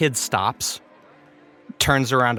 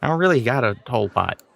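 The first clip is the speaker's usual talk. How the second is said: much higher, startled then laughing it off; surprised disbelief; 4 semitones higher, faster than usual. Acted. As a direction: caught off guard by an offer of friendship. Bullied boy surprised by friendship offer.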